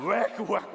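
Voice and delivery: loud gagging "blech"; mock retching. Preacher acting out biting the yellow jam, mock retching. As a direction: retch theatrically, twice.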